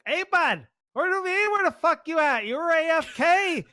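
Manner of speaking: high, mock-friendly call to a teammate; involuntary teasing reply. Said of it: "like, involuntary".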